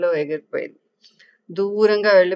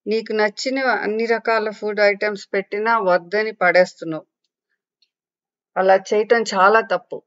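angry scolding; 2 semitones higher than usual. Acted. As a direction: scold her for wasting food. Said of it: "కోపంగా అడిగింది".

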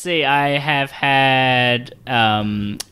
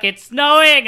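high, louder burst of delight; excited exclamation; 13 semitones higher, 5 dB louder than usual. Retold or imitated. Traveller retelling their reaction to London snow, excited high cry.

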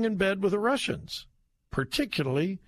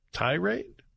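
incredulous question; 4 semitones higher than usual. Real, not acted. Mocking the headline's word.

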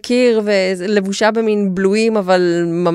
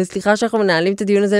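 half apologetic; much faster than usual. Retold or imitated. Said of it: "רבע מתנצלת הזאת".

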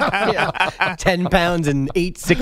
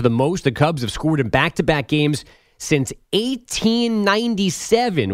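measured radio score recap; sports news read; 2 semitones lower than usual. Acted. Update anchor giving listeners the baseball scores, news read. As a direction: land each number like an update anchor.

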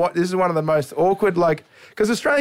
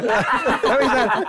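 slow repeat; 7 semitones higher, much slower than usual. Retold or imitated.

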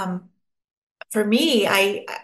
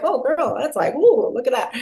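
sassy drag queen; 6 semitones higher, 4 dB louder than usual. Retold or imitated. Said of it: "They're like".

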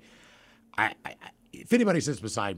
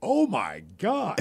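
slow stoned awe; 6 semitones higher, much slower than usual. Retold or imitated. Stoned stands up.

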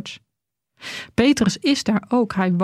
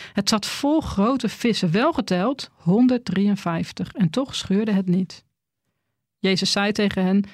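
Bible reading; 2 semitones lower than usual. Acted. Preacher reading John 21 aloud to the church, measured reading voice. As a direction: read the gospel passage out to the congregation.

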